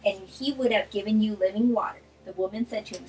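brisk, animated scripture reading; Bible reading aloud. Acted. Reading John four in a quick Bible study, animated read-aloud. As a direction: read the chapter out expressively.

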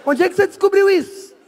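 mock astonishment. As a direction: act out a stunned friend's complaint. Reação encenada aos quatorze andares. (espanto encenado, arrastado e agudo)

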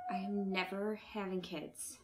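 breathless whisper to herself; whispered vow. Acted. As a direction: whisper it like a tired confession. Alone after hanging up.

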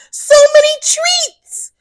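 high whispered delight; little hippo whispering over his candy; excited whisper. Acted. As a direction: whisper it, thrilled at the treats. Fritz peeks in his bag.

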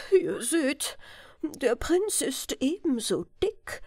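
a hint of a fed-up monarch; exasperated king. King complaining to his councillors, lightly indignant.

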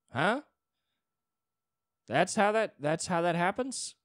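stunned, can't accept it; incredulous. Real, not acted. Incredulous at friend's fate.

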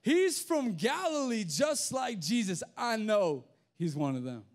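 high-pitched, insistent accusation. Acted. Someone identifying Peter as a disciple, insistent. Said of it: "insisted he was a disciple of Jesus".

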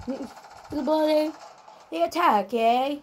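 light, badly faked Australian; bad Australian accent. Gamer trying out foreign acting mid-game, bad Australian accent. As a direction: have a poor go at an Australian accent. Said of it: "I should never try Australian".

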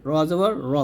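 র thick, with a rounded vowel; heavy র. Shown as a demonstration. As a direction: thicken র fully. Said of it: "এইখানে মোটা হবে".

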